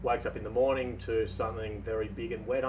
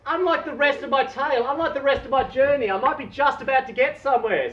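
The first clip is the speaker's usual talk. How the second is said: hopeful thought; 11 semitones higher, 5 dB louder than usual. Acted. Dave thinks.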